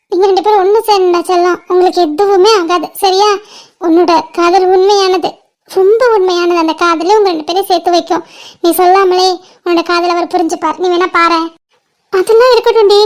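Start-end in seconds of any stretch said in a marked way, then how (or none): 0.1-11.5 low, gentle comfort; reassuring. Acted. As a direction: soothe her like a big sister, voice lower. Comforting crying friend. (ஆறுதலாக, தாழ்ந்த குரலில்)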